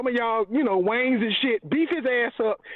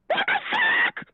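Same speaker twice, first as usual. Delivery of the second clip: high, yelled disbelief; furious shout. Real, not acted. Angry fan yelling about the loss, furious shout. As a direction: explode in outrage.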